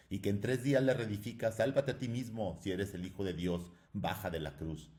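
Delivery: mofa más aguda y fuerte; grítale burlón al crucificado; burla a voces. A narrator's reading. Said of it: "se mofaban despiadadamente". (el soldado se burla de Jesús a gritos)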